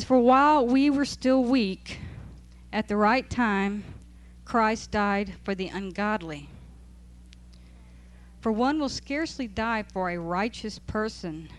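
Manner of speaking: slow, measured reading of the verse; scripture reading. Acted. Teacher reading Romans to the Bible study, slow and solemn. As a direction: let each phrase of scripture land.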